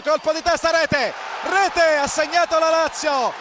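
rising shout of rete rete; breathless italian goal commentary. Real, not acted. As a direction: call the goal at full pitch. Goal called live. (telecronaca da gol concitata)

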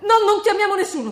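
high, loud, strained refusal; anxious insistence. Acted. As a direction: forbid it in fear. Refusing to call police.

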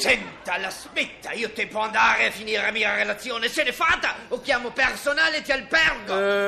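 put-on shouting in a German accent, losing patience; angry German shout. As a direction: throw him out, furious. Professor loses patience, shouting.

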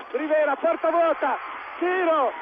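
excited commentary. Real, not acted. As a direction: build the tension fast. Chance at empty goal.

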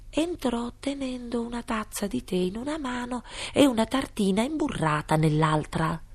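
usual speaking voice

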